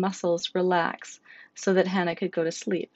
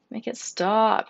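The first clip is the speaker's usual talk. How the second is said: slow, higher, louder plea; begging; 4 semitones higher, 4 dB louder, slower than usual. Acted. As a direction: beg for the pain to end. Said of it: "Hannah begged".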